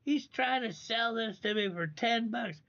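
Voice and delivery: high-pitched mock-hysterical retelling; amused, incredulous squeal of a retold quote; imitating laughing Roy. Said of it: "he's just laughing, laughing. It's like".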